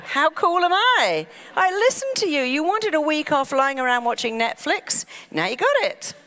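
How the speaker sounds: high, loud and pleased with itself; the mind boasting to its owner, smug and cheerful; gleeful mind voice. Acted. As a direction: crow about it like a proud helper. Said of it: "Your mind goes".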